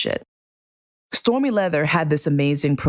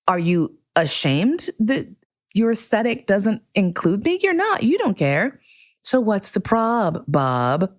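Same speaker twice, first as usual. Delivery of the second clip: sassy retort; 5 semitones higher than usual. Retold or imitated. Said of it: "I was like".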